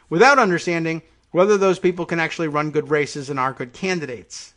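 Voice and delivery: reading an article out with emphasis; news read-aloud. Real, not acted.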